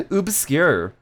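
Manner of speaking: "Obscure" starting with "oob"; exaggerated vowel. Shown as a demonstration. Streamer playing with vowels, exaggerated vowel. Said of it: "could be ub or obscure".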